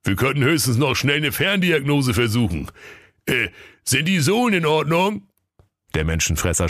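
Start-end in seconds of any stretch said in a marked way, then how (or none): 0.0-5.3 higher helpdesk voice; lightly voiced support agent; hotline brother. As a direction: run through the checklist. Grimm brother tries remote diagnosis.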